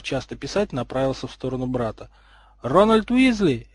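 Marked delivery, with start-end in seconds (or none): 2.6-3.7 high, drawn-out outraged call; angry yell. A narrator's reading. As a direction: call out the full name like an angry parent. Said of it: "второй разгневанный вопль".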